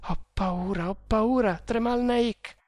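put-on high, fearful girl's voice; frightened plea. A narrator's reading. Girl pleading to Tremal Naik, frightened.

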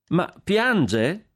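high, loud astonished question; startled, is he crying; surprised exclamation. Acted. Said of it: "esclamò Consuelo".

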